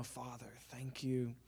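very soft, low, hushed prayer; intimate prayer. Acted. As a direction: pray privately, barely above a murmur.

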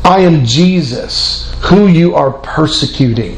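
low, slow and solemn, a calm voice from heaven; voice of Jesus. Acted. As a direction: speak slowly and with weight, like a voice from heaven. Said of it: "And then Jesus speaks to this man".

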